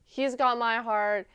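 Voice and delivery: excited reaction. Retold or imitated. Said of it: "And I was like".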